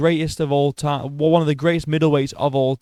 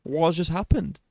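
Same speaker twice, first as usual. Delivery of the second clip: stunned disbelief; 5 dB quieter than usual. Retold or imitated. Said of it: "I was just like".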